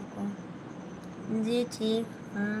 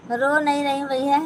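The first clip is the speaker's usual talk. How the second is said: रो नहीं रही said higher and louder; indignant denial; 4 semitones higher, 5 dB louder than usual. Real, not acted. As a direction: protest that you are not crying. Denies she is crying. (ऊँची आवाज़ में इनकार)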